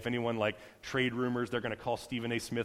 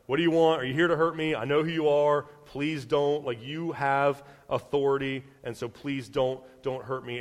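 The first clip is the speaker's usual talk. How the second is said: pleading demon; 3 dB louder than usual. Acted. Voices demons pleading with Jesus.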